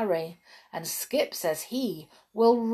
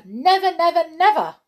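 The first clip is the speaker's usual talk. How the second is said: much higher, louder insistent nevers; an eager little brownie vowing loudly; emphatic vow; 10 semitones higher, 9 dB louder than usual. A narrator's reading. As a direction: swear it over and over.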